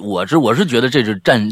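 ordinary delivery

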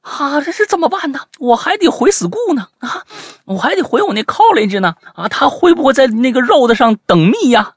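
high-pitched mock panic; acting out a flustered high wail; panicked fretting. Acted panicked reply to friend.

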